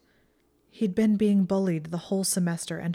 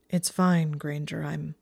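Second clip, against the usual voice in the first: faint scoff. Acted. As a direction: scoff it away. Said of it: "he scoffed faintly".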